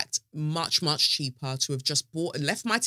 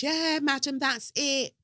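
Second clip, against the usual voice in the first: airline agent voice; 8 semitones higher, 3 dB quieter than usual. Retold or imitated.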